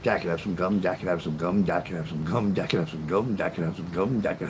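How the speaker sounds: low, rapid-fire repeated begging; relentless singsong pestering; nagging child on a tear. Retold or imitated. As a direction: rattle it off nonstop like a pestering kid. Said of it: "went on a tear and went".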